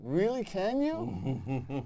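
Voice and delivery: incredulous, slow comeback; sceptical mock question. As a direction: stretch it out slowly in mock disbelief. Mock reply to an overconfident actor.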